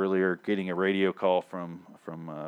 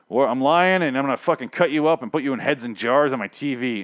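mock villain; 4 semitones higher, 5 dB louder than usual. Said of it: "the governor where it's like".

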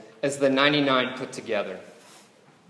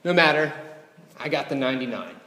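shrugging it off; faster than usual. Pretend. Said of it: "shrug his shoulders and say".

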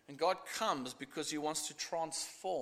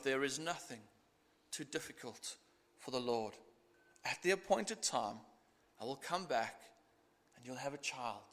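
soft, lower and tender; reassuring; 4 semitones lower, 5 dB quieter than usual. Acted. God reassuring doubting Sarah, softly and tenderly. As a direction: comfort her quietly. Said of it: "he just reassures her".

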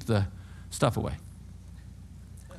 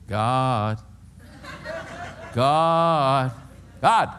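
calling out; much slower than usual. Retold or imitated. Grown man calling God like his mom, calling out. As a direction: mildly imitate the child's call for Mom.

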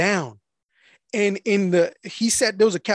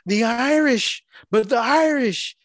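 imitating a drunk heckler, pitched up; higher-pitched retold heckle; mock drunken heckling; 7 semitones higher than usual. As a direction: heckle like a drunk woman, lightly played. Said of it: "kinda heckling".

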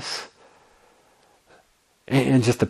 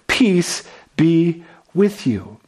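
slow, gentle "Peace be with you"; patient Jesus; 3 semitones higher, much slower than usual. Acted. Jesus greets frightened disciples with slow patience. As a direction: let the patience come through, unhurried. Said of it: "do you hear the patience in the voice".

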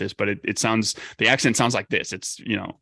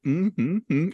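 higher-pitched questioning "mm-hmm, mm"; questioning verbal tic; 8 semitones higher than usual. Acted. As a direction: hum it like a character's habitual question ending. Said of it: "they always ended their questions with".

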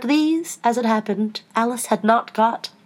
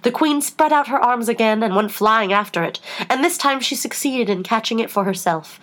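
plain reading voice

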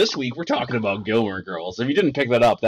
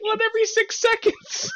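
incredulous. Real, not acted. Incredulous at AOL statistic.

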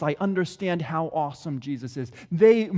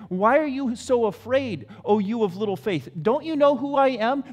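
firm, slightly raised challenge; firm rebuke; 4 semitones higher, 3 dB louder than usual. Acted. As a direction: press the frightened men for an answer. Jesus questions frightened disciples.

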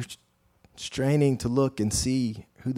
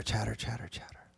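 fading whisper; 8 dB quieter than usual. Acted. Fading crowd chatter.

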